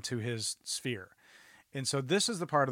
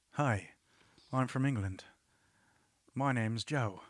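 quiet serial killer; 5 dB quieter than usual. Pretend. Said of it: "a serial killer is more quiet".

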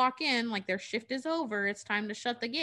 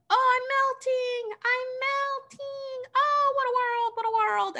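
Wicked Witch; 4 dB louder than usual. Retold or imitated. Melting witch cries her famous line, screeching. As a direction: wail it in a held, piercing falsetto. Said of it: "the Wicked Witch says".

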